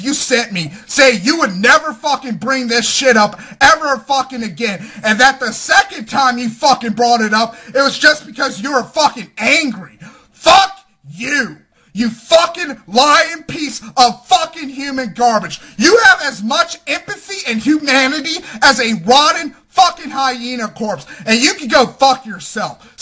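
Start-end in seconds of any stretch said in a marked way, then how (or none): 1.9-10.0 angry, building shout; furious rant. Real, not acted. Vlogger raging at the troll who posted the video, furious. 10.3-23.0 raging, voice cracking with anger; furious shout. Real, not acted. Vlogger cursing the liar who broke his promise, furious. Furious rant at a named troll.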